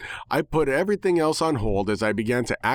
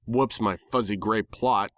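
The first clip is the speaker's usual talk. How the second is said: ordinary delivery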